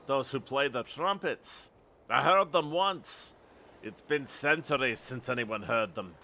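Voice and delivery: lightly voiced Scottish storyteller; Scottish accent. Lookout telling visitor about trumpets, Scottish accent. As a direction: tell of it in put-on Scottish. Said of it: "if my Scottish accent is bad".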